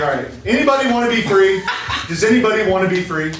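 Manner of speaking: fast, eager recruiting call. Acted. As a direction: call out to the crowd quickly. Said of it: "He was like".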